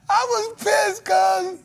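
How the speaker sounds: mock outraged shout. Real, not acted. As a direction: blow it up into a mock yell. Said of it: "same words said plainly first".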